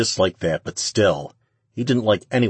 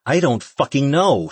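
higher, louder angry snap; 7 semitones higher, 4 dB louder than usual. A narrator's reading. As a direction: snap it at him. Snapping in anger.

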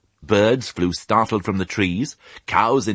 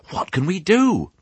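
put-on young piglet; 12 semitones higher than usual. A narrator's reading. Piglet asks old sheep.

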